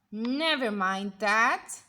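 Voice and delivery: slow, loud curt snap; snapping. Acted. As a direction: cut them off sharply. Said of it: "snapped Miss Swamp".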